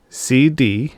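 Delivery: puzzled echo. Acted. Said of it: "Engel echoed".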